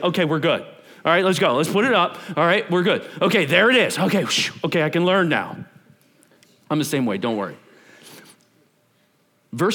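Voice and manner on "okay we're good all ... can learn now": relieved visual learner. Pretend. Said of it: "you're like".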